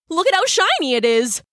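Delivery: high, gushing crab voice; excited Brock voice. Acted.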